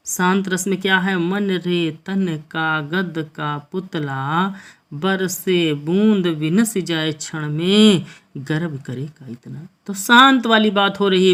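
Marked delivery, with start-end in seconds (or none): 1.2-9.7 slow, measured verse recital; poem recitation. Acted. Teacher reciting a Hindi verse to students, slow poem recitation. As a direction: draw each line out like a poet on stage.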